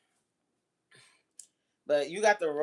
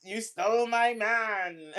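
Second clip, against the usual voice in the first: mock dramatic reading; 5 semitones higher, slower than usual. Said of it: "this one talking about".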